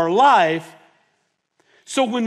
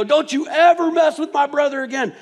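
retold threat; 9 semitones higher, 5 dB louder than usual. Threatening the bully.

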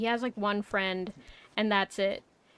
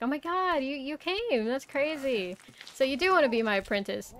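a raised, eager beast master; excited Red Bear; 5 semitones higher than usual. Retold or imitated. Red Bear thrilled the kid came, excited. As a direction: pitch it up with glee.

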